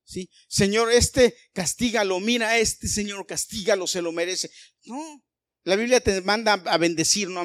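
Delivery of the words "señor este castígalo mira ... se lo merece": a louder, higher lightly mocking plea for punishment; mock vengeful prayer. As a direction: parody a spiteful believer begging God, a bit hammed-up. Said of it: "motivos equivocados".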